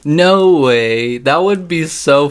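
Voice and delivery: loud, stunned no way; shocked disbelief. Real, not acted. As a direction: react in disbelief. Shocked reaction to heel turn.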